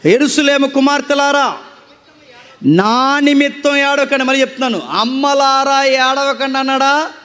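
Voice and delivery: forceful, sustained sermon delivery; preaching. Acted. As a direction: preach it out to a congregation, drawing out key phrases. (ప్రసంగ శైలిలో గట్టిగా బోధిస్తూ)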